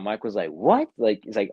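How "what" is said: higher, rising startled what, retold; freaking out. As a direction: imitate someone mildly freaking out. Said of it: "freaking out".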